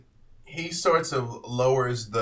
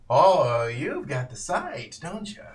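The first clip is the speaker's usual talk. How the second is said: lightly voiced old man, rising high at the end; a hint of a sly old man sizing her up; creepy old man, intrigued; 3 semitones higher, 3 dB louder, slower than usual. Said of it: "And he's like".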